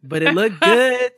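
but it looked good, said big and proud. Real, not acted. Friend proudly defending old crimped hair, loud and pleased.

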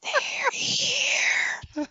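put-on very high eerie child's cry; eerie little girl calling out; Poltergeist girl. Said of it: "sounds like the girl from Poltergeist".

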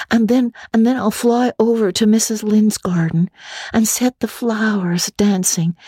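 put-on high, quick young girl voice; a chattering imaginative orphan girl; Anne, girlish and eager. Anne complains to Marilla, high girlish voice. Anne's voice.

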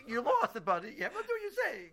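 laughing high, words breaking into laughter. Real, not acted. Teacher laughing at the shop sign's Hebrew. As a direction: laugh through it, pitch jumping up.

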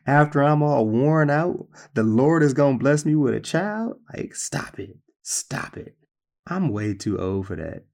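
lightly voiced old woman scoffing, then a breathy stop it; a touch of an old woman's half-laughing disbelief; Sarah scoffing. Sarah laughing to herself at the promise, mild scoff. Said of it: "she started laughing to herself".

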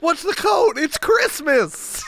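hammed-up shouting worker, slowing on Christmas; mock yelled exchange. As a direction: ham up the yelled question and answer. Acting out worker yelling code.

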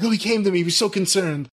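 lightly put-on interviewee's earnest recounting; Jericho impression. Podcaster mocking the wrestler's interview answer, light impression. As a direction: mimic a self-important wrestler, only lightly. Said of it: "he talked just like this".

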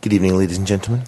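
low, brisk 1940s radio announcer; a lightly done old BBC announcer; BBC continuity announcer. Acted. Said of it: "in the style of a B B C nineteen forties continuity announcer".

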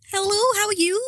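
high-pitched put-on Liverpool accent; bad Liverpool accent. Friend keeps the game going, high Liverpool accent. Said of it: "what accent you're doing".

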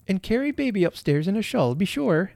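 high-pitched call through a door; calling from passage. A narrator's reading. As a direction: call it out from the hallway. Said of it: "added Missus Jenkins' voice in the passage".

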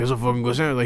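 lightly attempted Spanish accent; bad Spanish accent. Son imitating dad praising a sandwich, bad Spanish accent. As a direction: give a half-hearted Spanish accent impression. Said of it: "he's got a Spanish accent to him".

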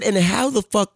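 exasperated and fast, clearly pitched high; a father scolding his son, rising in disbelief; exasperated dad. Retold or imitated. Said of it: "'cause I'm talking like this now".

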